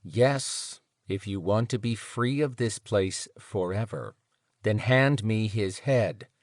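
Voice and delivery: smooth voice. Acted. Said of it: "spoke in a smoother tone".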